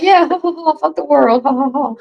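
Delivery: high-pitched mocking ha-ha-ha; mock gleeful laughing. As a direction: imitate a crowd cackling wildly along. Mimics everybody gleefully cackling along.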